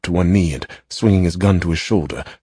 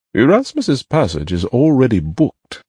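slow, pleading, pitched up; beseeching; 7 semitones higher, 4 dB louder than usual. A narrator's reading. Cousin urging Titch to let Erasmus return, beseeching. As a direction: plead gently for the passage. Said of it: "something beseeching in his voice".

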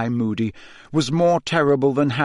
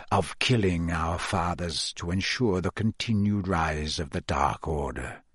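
gloating villain; 4 semitones lower than usual. Acted. Moody confides in Harry about killing their fathers, gloating. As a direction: relish it, letting the voice drop low by the end.

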